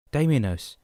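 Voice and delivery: loud, high shout of the name. A narrator's reading. Man alone in hospital shouting for friend. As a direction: bellow the name to be found. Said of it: "he shouted again".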